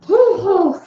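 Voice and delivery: huffing like steam out of the ears; mock angry huffing. Teacher showing stressed-out fuming, mock huffing. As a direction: puff out a mock fuming "Hoo, hoo". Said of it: "smoke coming out of the ears".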